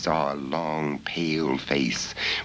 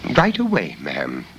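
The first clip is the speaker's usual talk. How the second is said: put-on young girl Bella; 3 semitones lower, 4 dB louder than usual. Bella voiced by the narrator.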